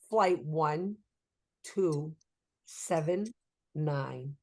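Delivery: low, one item at a time with long pauses; mock dictation. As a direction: dictate haltingly, pitch sinking as you go. Uncle dictating a flight number.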